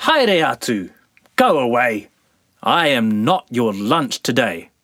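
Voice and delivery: loud mock shout; shouting man. Man shooing sandflies, loud mock shout. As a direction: shoo them off loudly.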